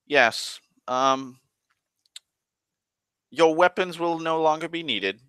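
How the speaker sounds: lazy, lofty high voice; lounging on the throne, dismissing them; nonchalant elf king. Retold or imitated. Elf king disarming the party, airy high voice. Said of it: "that's when he goes".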